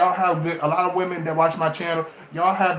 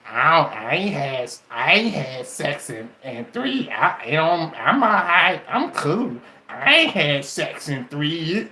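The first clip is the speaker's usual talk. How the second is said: mock lying single; 2 semitones lower than usual. Mocking the lying single woman.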